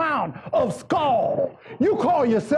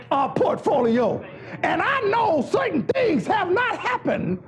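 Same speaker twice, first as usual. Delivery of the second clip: raised preacher's voice playing the devil; full-force preaching; 6 semitones higher than usual. Devil challenging Jesus over his arrival, preached at full force. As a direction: challenge him in big, separated phrases.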